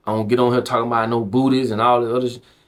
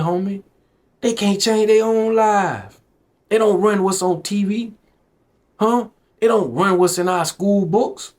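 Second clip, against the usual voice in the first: higher, impassioned and heated; real heated street sermon, pitch raised; emotional rant; 4 semitones higher than usual. Real, not acted. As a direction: get worked up, pleading with the homies to wake up. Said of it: "Sorry if I got a little emotional".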